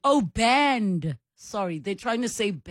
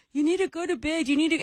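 higher, lightly nagging mimic of the sister; host imitates sister ordering the three-year-old to bed, mildly bossy; mimicking sister; 8 semitones higher, faster than usual. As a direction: imitate a sister bossing a toddler to bed, pitched up. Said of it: "when she's like".

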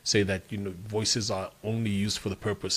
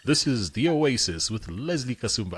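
measured radio station ident with swooping emphasis; voiceover voice; 4 dB louder than usual. Shown as a demonstration. Guest voicing a station ident for the host, voiceover voice. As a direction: announce the show like a voiceover pro. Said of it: "Do it in your voiceover voice".

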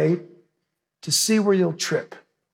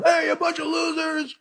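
mock Goliath taunt; 7 semitones higher than usual. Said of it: "Goliath got up and yelled at Israel".

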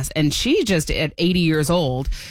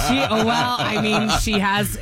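laughing; 4 semitones higher than usual. Real, not acted. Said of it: "laughing while answering".

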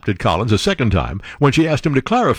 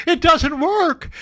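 slow emphatic; much slower than usual. Real, not acted. Drawn-out punchline.

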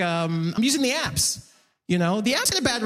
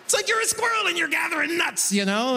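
higher, patient explainer voice; banker's squirrel voice; 7 semitones higher than usual. Retold or imitated. Banker explaining investing like to a kid, higher and patient. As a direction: talk down like to a child, lightly voiced. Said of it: "that's the voice he's using too".

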